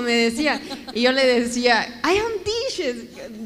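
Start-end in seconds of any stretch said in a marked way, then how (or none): 2.0-3.4 very slow and higher, spelling it out word by word; slow, drawn-out repetition. Retold or imitated. To her puzzled adoptive father, drawn out slowly. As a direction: stretch every word so they finally get it.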